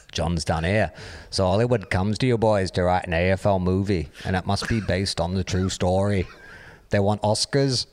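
clumsy mock Liverpool accent; terrible Liverpool band accent. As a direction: read it in a badly faked Liverpudlian accent. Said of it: "in a terrible Liverpool band accent".

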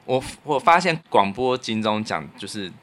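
normal talking voice

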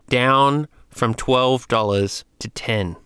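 chewing while talking; mouth full. Real, not acted. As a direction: talk through a chewed tablet. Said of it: "you can probably hear it in my mouth".

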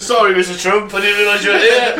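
laughing through the words; cracking up mid-sentence. Real, not acted. Laughing mock apology to friend.

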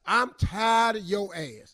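slow, drawn-out fed-up rant; hammed-up husband at breaking point; frustrated. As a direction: drag out each word in acted exasperation. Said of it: "get frustrated and raise your voice".

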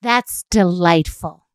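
slow, syrupy and overly gracious; lingering fake-polite sign-off; passive-aggressive politeness. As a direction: stretch each courtesy out sweetly. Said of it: "Big, flowy, daisy-like words are so passive-aggressive".

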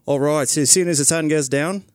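light Australian accent. Shown as a demonstration. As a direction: say it like an Aussie kidnapper. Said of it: "they're all Australian in Africa".

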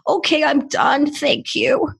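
put-on high, suddenly cheerful child voice; chirpy little kid. Podcaster mimicking a toddler who is suddenly fine, high and bright. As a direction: snap back to sunny like a toddler.

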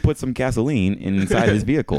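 primly translate the Texan line into stiff formal English; proper English translation. Retold or imitated. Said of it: "normal English".

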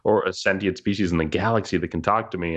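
Sarlacc voice. Retold or imitated. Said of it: "this is the Sarlacc speaking".

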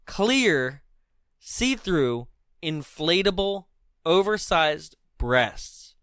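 slow, word by word; deliberate enunciation. Shown as a demonstration. Host confirms the absurd prop was said correctly, deliberate enunciation. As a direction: space out each item for emphasis.

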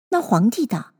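ordinary delivery

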